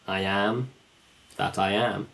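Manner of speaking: I AM THAT I AM with both AMs weighted; measured quotation, AM stressed each time; emphasis on AM. Shown as a demonstration. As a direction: lean on each AM, with a pause after the first. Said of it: "The emphasis on the".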